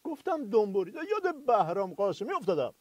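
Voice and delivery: quiet confiding aside; hushed aside. Acted. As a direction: drop your voice as if confiding. Sidekick mutters aside.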